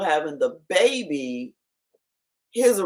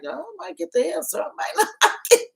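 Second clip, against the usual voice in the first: high mock voice; 12 semitones higher, much faster than usual.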